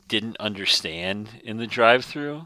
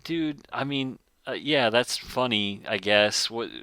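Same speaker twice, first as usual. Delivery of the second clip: confused; 3 semitones higher than usual. Retold or imitated. Retold confused reply to joke.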